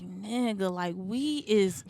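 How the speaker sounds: loud, slow, laughing comeback; exasperated retort. Retold or imitated. Telling off her date at dinner, loud and laughing. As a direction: lay it on him, half laughing.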